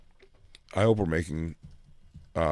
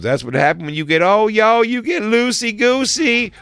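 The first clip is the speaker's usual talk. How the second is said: radio host imitation; 14 semitones higher, 8 dB louder than usual. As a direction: stretch out loosey-goosey like the host. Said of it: "She goes".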